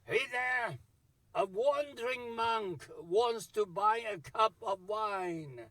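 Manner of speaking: a monk shouting to the innkeeper for wine; mock shout. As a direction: call out boldly across the inn. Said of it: "shouting for wine".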